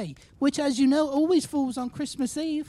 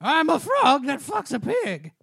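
Kermit the Frog voice; 3 dB louder than usual. Retold or imitated. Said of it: "the speaker trying to do a Kermit the Frog impression".

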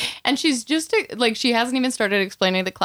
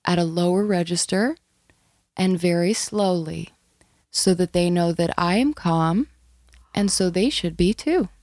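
lullaby voice. Shown as a demonstration. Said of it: "I sort of talk to them like this".

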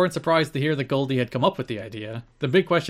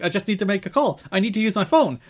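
mock shout; 7 semitones higher, faster than usual. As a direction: play her meltdown yelling at the clerk. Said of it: "She starts shouting at him".

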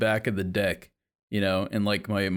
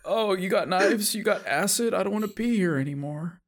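mock weary Brit; 8 semitones higher than usual. Imitating a weary British person.

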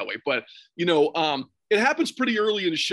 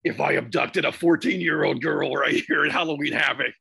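lightly voiced sinister promo villain; a hint of a creepy masked wrestler cutting a promo; guessing-game impression of a cheesy heel. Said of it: "Who is that?".

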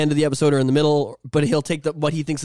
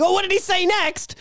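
curious listener. Retold or imitated. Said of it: "they're like".

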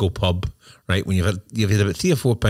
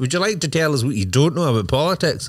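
mock TV reporter; 5 semitones higher than usual. Mock news reporter skit.

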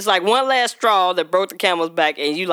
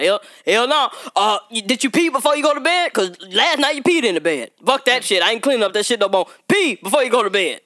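single dad; 4 semitones higher than usual. Retold or imitated. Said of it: "they be like".

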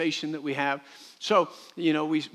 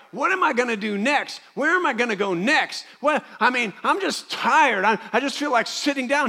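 weary believer; 8 semitones higher, 6 dB louder than usual. Retold or imitated. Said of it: "And you're, you're like".

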